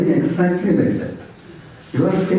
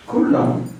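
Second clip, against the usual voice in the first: calm soothing; 4 semitones lower than usual. Retold or imitated. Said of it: "Yamuna was very cool".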